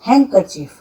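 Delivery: हैंडकरचीफ said with the D dropped; right way, D silent. Shown as a demonstration. Teacher to students: silent D in हैंडकरचीफ. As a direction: say हैंडकरचीफ as hankerchief. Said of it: "इसमें भी डी silent होता है".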